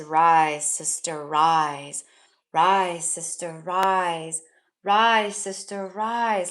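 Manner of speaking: relaying the goddesses' call with mild emphasis; proclaiming goddess call. Retold or imitated. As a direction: call out rise like a chant. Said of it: "they were like, all they said was".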